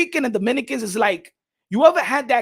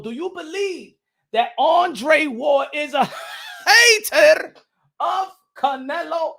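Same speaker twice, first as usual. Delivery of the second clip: slow, louder, bursting into laughter on hater; laughing question; 7 semitones higher, 5 dB louder, slower than usual. Real, not acted. Asking viewers whether Andre Ward is a hater, laughing question.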